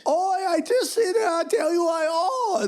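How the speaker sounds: very high, wailing Jewish accent. Shown as a demonstration. Comic doing a requested accent for the host, wailing Jewish accent. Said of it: "Let's hear your Jewish accent".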